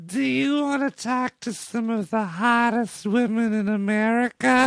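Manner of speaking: high, lightly voiced promo announcer; a hint of a manic ad guy; crazy male voice. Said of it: "that crazy male voice".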